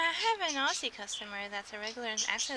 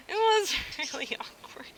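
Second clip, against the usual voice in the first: laughing whisper; 8 semitones higher than usual. Real, not acted. Laughing about awkward guys.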